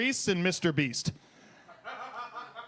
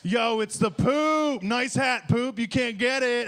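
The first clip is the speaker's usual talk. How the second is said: slow, higher teasing bro voice; mock greeting to the Pope; 5 semitones higher, slower than usual. Brother teasing the Pope, slow higher mocking drawl. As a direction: greet him like a dumb kid brother. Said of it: "I'd be like".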